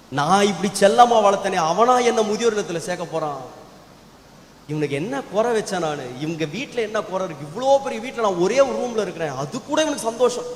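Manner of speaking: wounded father questioning, pitch lifting at times; acted hurt and bewilderment; hurt disbelief. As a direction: protest as a wronged father, in mild disbelief. Father hurt by son's words.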